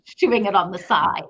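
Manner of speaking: chuckling through the words; laughing. Real, not acted. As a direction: laugh as you tell it. Laughing about her dog.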